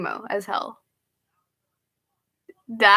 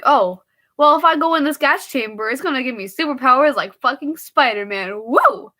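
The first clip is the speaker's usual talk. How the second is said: mock hyped voice; 4 semitones higher, 4 dB louder than usual. Imagined quote of hyped prisoner.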